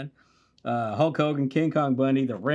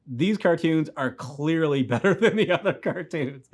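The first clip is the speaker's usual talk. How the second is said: retold kid opinion; 3 semitones higher than usual. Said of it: "You're just like".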